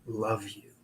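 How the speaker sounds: soft, low imitation of a faint voice; very quiet. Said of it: "very quietly".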